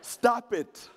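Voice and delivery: drawn-out teasing of the runners; mock pity. East African teasing American marathon runners, mock pity. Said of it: "I'm like".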